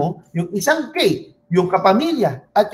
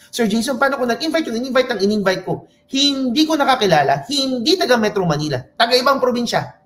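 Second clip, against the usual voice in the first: eager attendee question; 5 semitones higher than usual. Acted.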